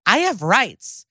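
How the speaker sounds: hammed-up protest, pitch leaping on the question; mock teen defiance. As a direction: imitate a teen insisting, unsure at the end. Acted quote of defiant teen.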